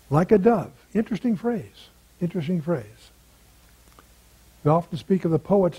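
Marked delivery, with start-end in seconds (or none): 0.9-1.9 raised, curious musing on the phrase; first take, pitched up in curiosity. Real, not acted. 2.2-3.1 quiet musing echo. Real, not acted. Musing repeat of a phrase.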